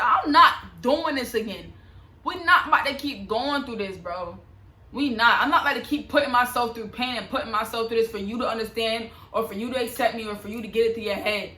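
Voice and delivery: firm, fed-up retold ultimatum; blunt retelling. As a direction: lay down the law, a bit heated, as you retell it. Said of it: "I ain't say it like that".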